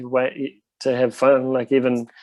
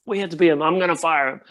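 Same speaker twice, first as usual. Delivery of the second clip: Lars impression; 3 semitones higher, faster than usual. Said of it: "that's my best Lars impersonation".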